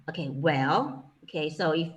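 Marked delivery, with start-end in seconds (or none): 0.3-1.0 "Well" dipped low then rising; thinking well. Shown as a demonstration. Teacher showing the third tone as a thinking sound. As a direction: let "Well" dip low and come back up, pondering. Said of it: "English thinking sound".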